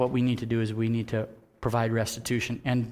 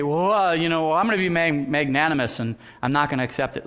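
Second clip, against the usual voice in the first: mock magnanimous; 3 semitones higher, 5 dB louder than usual. Shown as a demonstration.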